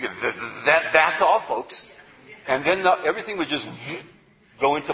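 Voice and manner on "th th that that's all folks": Porky Pig. Retold or imitated. Teacher recalls the old cartoon ending, stuttering cartoon-pig impression. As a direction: stutter into it, then launch the catchphrase. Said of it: "They used to end with Porky Pig".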